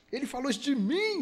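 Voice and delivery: hammed-up outrage; getting worked up. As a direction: act offended, voice climbing. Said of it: "E nós subimos".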